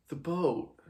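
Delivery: short, flat, falling "The boat."; blunt answer. Acted. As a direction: say "The boat." as a plain flat fact. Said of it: "Simon just says".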